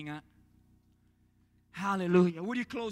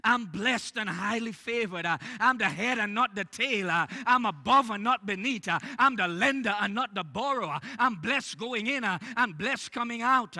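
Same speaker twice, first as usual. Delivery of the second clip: a hint of a pompous churchgoer, a bit louder; mock deep tone voice; 3 dB louder than usual. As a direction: boast it like you're putting on a front. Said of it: "with your deep tone voice, you're gonna reply".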